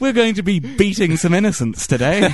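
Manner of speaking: high, chirpy parody TV greeting; mock breakfast-show host. Host announcing the beating of innocents, mock cheeriness. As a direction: open the show with hammed-up cheer.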